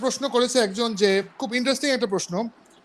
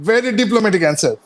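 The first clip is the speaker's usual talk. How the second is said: slow, drawn-out playful praise; teasing; 7 dB louder, much slower than usual. Real, not acted. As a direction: stretch it out with a wink. Teasing reply to answer. (মজা করে টেনে বলা)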